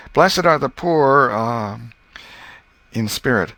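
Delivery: high, loud, slow stumbling verse; halting schoolboy recital. Acted. Tom fumbling his verses as Mary listens, high and halting. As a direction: recite it like a boy barely remembering.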